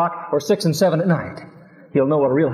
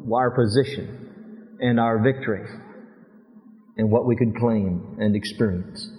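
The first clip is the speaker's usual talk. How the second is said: prayer; 3 semitones lower than usual. Acted. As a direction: pray humbly, trailing down. Leads a prayer.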